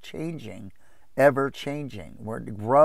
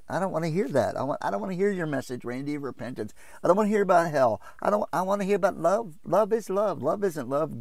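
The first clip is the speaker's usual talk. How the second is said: rushed, higher mock protest; itchy-eared objector; 5 semitones higher, faster than usual. Churchgoer rejecting Randy's message of repentance, hurried higher-pitched mock complaint. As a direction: mimic a listener refusing the message, voice raised. Mimics people refusing sound doctrine.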